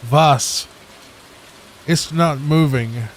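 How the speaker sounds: mock German chef; lightly hammed German accent; German-style denial, v for w. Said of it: "It's W A S if it's German".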